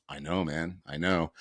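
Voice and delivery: soothing agreement. Retold or imitated. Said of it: "I just kept looking at him going".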